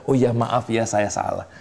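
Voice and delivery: humble apology. Shown as a demonstration. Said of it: "keluarkan kata maaf".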